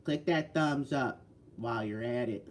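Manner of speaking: a light Mississippi drawl, slow; Mississippi accent. Retold or imitated. Reading Johnny Five's chat comment aloud, mild Mississippi accent. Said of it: "Johnny Five in his Mississippi accent says".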